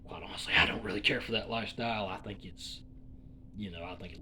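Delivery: hushed aside to himself; whispered aside. Real, not acted. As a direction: say it under your breath.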